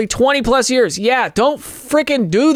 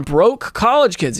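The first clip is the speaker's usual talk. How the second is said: "broke" leaned on hard; heavy emphasis landing on "broke"; stress on broke; slower than usual. Real, not acted. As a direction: punch the word "broke". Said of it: "Yes, emphasis on broke".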